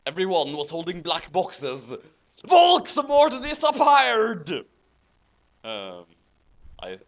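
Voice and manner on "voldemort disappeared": loud, high, slow proclamation; booming dramatic reading of the news; dramatic announcement. Acted. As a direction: declare it like a stage reveal. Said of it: "so we'll try again".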